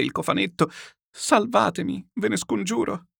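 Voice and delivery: clinging to his knees, beg through tears; tearful begging. Acted. Chichikov embracing Murazov's knees, weeping and begging. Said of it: "gli abbracciava le ginocchia e le bagnava di lacrime".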